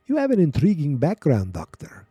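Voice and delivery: light mock Russian accent, dropping away at the end; first try at a fake Russian accent; bad Russian accent. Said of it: "I'm gonna do some bad Russian accent".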